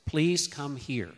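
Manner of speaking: slow, calm please; unhurried parent asking a toddler to come; gentle request. Shown as a demonstration. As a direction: ask softly and patiently.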